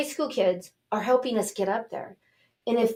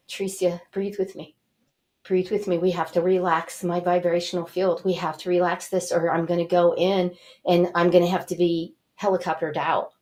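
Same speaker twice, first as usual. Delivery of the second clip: understated, steady instruction; retold calming plea. Asking Teresa to breathe with her, understated calming plea. Calming friend while hurt.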